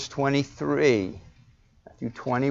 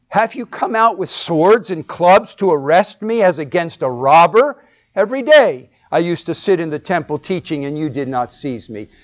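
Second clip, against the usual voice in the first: indignant; 2 semitones higher, 3 dB louder than usual. Acted. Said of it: "Jesus' indignation toward the arresting crowd".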